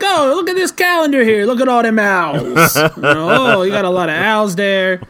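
a high, mocking tough-cop voice; gruff detective. Detective mocking the owl man's calendar, mock cop voice. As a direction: sneer at the calendar of owls like a sleazy cop. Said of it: "He's like".

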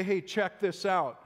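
"Hey, check this out" said slowly for emphasis; emphatic attention-getter. Acted. Speaker flagging a key point to a listener, "Hey, check this out" slow and emphatic. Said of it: "there's something I really want to emphasize".

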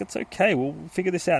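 reassuring woman. Retold or imitated. Detective reassures the frightened boy.

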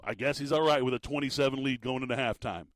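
exasperated. Retold or imitated. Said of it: "just completely exasperated".

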